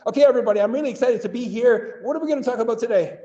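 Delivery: high, eager welcome said while standing stiff; stiff enthusiastic demo. Shown as a demonstration. Teacher demoing a stiff but eager class welcome. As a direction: sound excited but keep the body rigid. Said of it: "imagine if I was standing like this".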